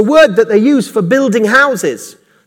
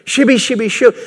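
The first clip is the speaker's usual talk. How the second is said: mock tongues babble; 3 semitones higher than usual. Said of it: "to mimic".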